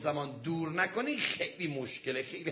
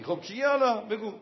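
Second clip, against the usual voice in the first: curious prompt; 6 semitones higher, 5 dB louder than usual. Retold or imitated. Cleric asks what happened.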